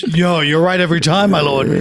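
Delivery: lightly acted fawning courtier; obsequious. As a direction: flatter your lord, a touch servile.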